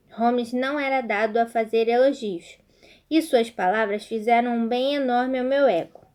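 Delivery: reading a story aloud to the class. Acted. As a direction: tell the tale evenly, narrator and characters. Teacher reads story aloud.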